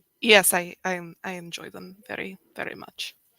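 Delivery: dead earnest, very serious, low and grave. Voicing a character who turns from snarky to very serious. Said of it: "and now she's very serious".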